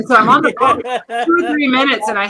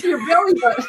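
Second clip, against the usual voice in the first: laughing shriek; 7 semitones higher, faster than usual. Real, not acted.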